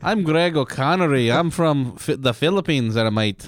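wobbly mock-Aussie introduction; Australian accent. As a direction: attempt a muddled Australian accent. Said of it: "tell the story in an Aussie accent".

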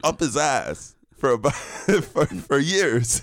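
high, drawn-out mocking voice. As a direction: keep the silly high voice going. Continuing the mock voice bit.

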